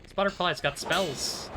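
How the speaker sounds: shocked disbelief at a butterfly; surprised. Real, not acted.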